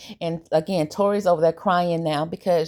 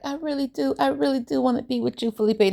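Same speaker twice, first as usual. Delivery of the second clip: retold girlfriend's plea, pitched way up; mock begging; 8 semitones higher than usual. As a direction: beg in a raised voice, as if imitating her. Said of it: "she's begging for the relationship".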